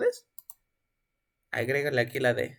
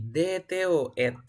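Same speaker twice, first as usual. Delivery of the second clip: slow listing of sounds; 2 semitones higher, slower than usual. Shown as a demonstration. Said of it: "están aplicando dos reglas".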